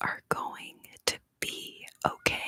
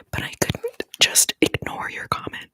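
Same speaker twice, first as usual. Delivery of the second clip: getting emotional; 7 dB louder than usual. Real, not acted. Thanking a viewer for a comment, voice welling up. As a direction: whisper with tears rising. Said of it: "I've gotten a bit emotional".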